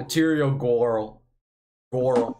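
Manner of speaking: put-on song lyric in a Boston accent. Shown as a demonstration. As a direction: say it Boston-style, girl as "Goral". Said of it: "Can I do a Boston accent".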